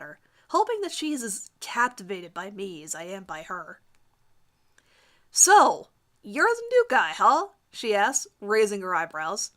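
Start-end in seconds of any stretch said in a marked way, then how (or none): 5.3-7.5 lightly voiced girl, higher and teasing; a sassy classmate sizing him up. Heather teasing the new guy.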